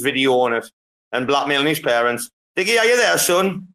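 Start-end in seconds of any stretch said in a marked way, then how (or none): 2.6-3.7 calling out. Real, not acted. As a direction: call out to someone who isn't answering. Host calling for a silent guest.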